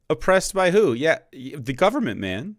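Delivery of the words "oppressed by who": incredulous jab. Real, not acted. Host mocking the guy's argument.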